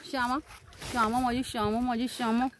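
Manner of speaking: soft, low, fond cooing to the cow; tender cooing. Real, not acted. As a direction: coax her gently, like a pet.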